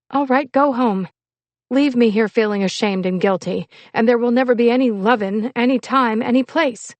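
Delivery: loud, high-pitched lovers' quarrel; angry retort. Acted. Spurned girl telling her lover to go, loud and angry. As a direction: fling it back at him, hurt and heated.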